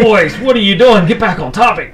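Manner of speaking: high, loud scolding; scolding wife voice. Retold or imitated. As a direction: nag them back on track, loud and high. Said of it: "Cena's smacking both of us".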